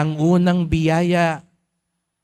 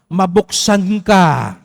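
proclaimed command; 5 dB louder, much slower than usual. Shown as a demonstration. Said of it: "Sabihin mo sa katabi mo".

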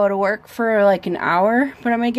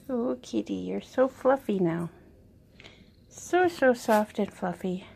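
tender pet talk; 6 dB quieter than usual. Real, not acted. Petting the fluffy cat.

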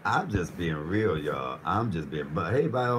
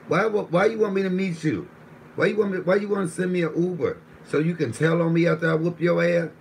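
raised, heated voice, much higher and louder; angry rant; 5 semitones higher, 3 dB louder than usual. Real, not acted. Streamer ranting at a snitch, angry raised voice. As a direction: tear into him over wanting to meet.

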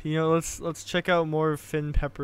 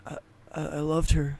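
sobbing. A narrator's reading. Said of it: "Finn sobbed".

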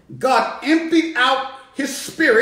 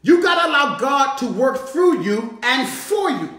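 full-force preaching. Acted. Preacher urging the church, preaching at full force. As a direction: drive it home to the church.

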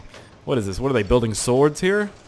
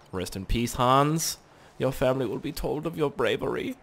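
mock solemn eulogy; 6 dB quieter than usual. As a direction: play the solemn officer lightly.

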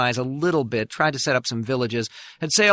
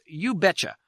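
mock eager reply; 4 semitones higher than usual. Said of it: "And the answer, to no one's surprise, was".

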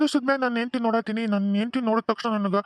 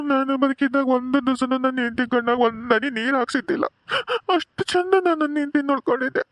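scolding ghost father; 4 semitones higher than usual. Acted.

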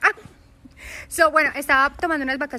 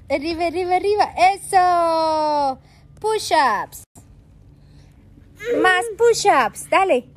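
high, loud coaching shout; excited cheering; 7 semitones higher, 7 dB louder than usual. Real, not acted. Mom coaching baby through push-ups, loud and high.

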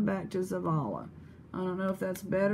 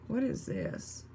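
a whispered, curious question; 4 semitones higher, 5 dB quieter than usual. Real, not acted. Finding a new piece, whispering higher in curiosity. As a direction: whisper it up high in surprise.

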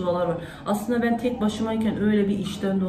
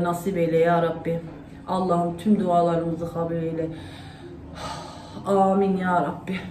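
earnest prayer. Acted. Mother praying aloud for family and all believers, fervent supplication. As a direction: pray aloud, pleading with God line by line. Leads a spoken dua.

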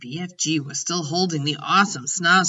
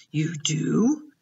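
suddenly brightening. A narrator's reading. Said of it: "suddenly brightening".

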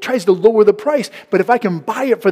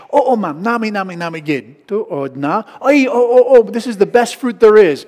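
eager vendor; 3 semitones higher, 4 dB louder than usual. Retold or imitated. Vendor flattering a customer.

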